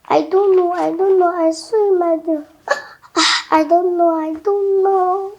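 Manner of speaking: crying out i don't know through tears; choked, weeping confusion; a daughter sobbing to her father; tearful. Acted. Daughter distressed, crying after vision.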